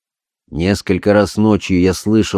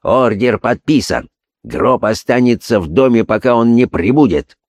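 commanding voice; 3 semitones higher than usual. Acted. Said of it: "Властный голос Холмса".

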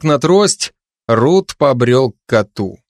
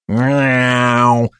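pressing meow. Acted. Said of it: "с нажимом процедил кот".

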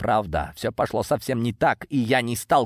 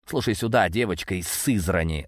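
hissed, menacing threat; angry hiss; 4 semitones lower than usual. Acted. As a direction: spit it out as a venomous hiss. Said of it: "зло зашипел он".

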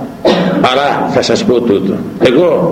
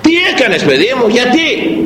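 scolding parent; 9 semitones higher than usual. Acted. Parents scold their churchgoing child.

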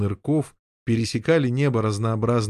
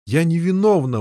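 higher, louder wailing protest; 5 semitones higher, 4 dB louder than usual. Acted. Lady wailing her innocence at the knight. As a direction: wail your innocence. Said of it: "возопила дама".

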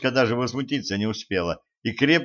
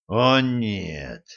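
grit it out; процедил; through clenched teeth. A narrator's reading. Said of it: "процедил Кощей".

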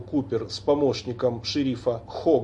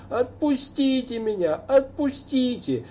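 put-on drunken shout; 10 semitones higher than usual. A narrator's reading. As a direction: cry it out drunk again. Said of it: "вновь пьяным голосом закричал". (пьяный крик)

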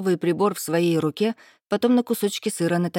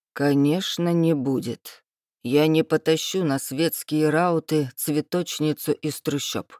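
haughty lord; slower than usual. Acted. Dragon lord's lines.

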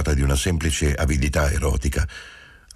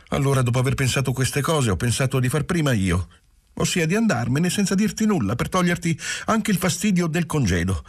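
put-on higher young woman's voice, rushing her confession; Giulia, young wife, anxious; 8 semitones higher than usual. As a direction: pour it out, half tearful, half relieved. (giovane moglie che confessa, voce alta e agitata)

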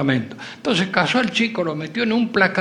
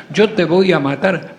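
slow, louder angry threat; 4 dB louder than usual. Acted. Hidden lover threatens the blackmailing boy, angry and slow. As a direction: growl a slow threat at the kid.

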